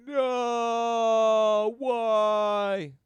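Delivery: high loud mocking wail; mock child protest. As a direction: whine it like a protesting kid.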